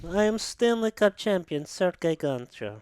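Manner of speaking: hammed-up Russian hockey coach; Russian accent. Hockey podcaster imagining the new coach's entrance, mock Russian accent. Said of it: "Sergei Gonchar coming in. ... being like".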